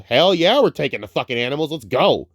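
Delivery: eager, fast cheer; thrilled, ready to go; excited. Retold or imitated. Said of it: "Ellie would be the first one to go".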